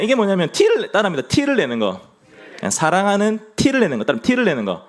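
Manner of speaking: ordinary delivery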